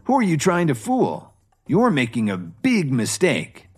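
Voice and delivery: furious outburst. Acted. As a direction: lash out at the manager. Drunk guest insults the manager.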